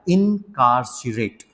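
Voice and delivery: slowly spelled out incarcerate; slow demo word. Shown as a demonstration. Teacher slowly models the word for students. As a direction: say इनकार्सिरेट slowly, syllable by syllable. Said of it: "इसको बोलो आप बेटा".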